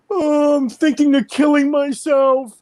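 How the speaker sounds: high, whiny mock sob of a grown man on the phone; mock crying whine. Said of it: "he starts crying on the telephone. Crying".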